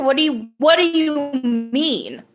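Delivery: rising confusion, mock incredulous; refusing to believe mom's news, incredulous.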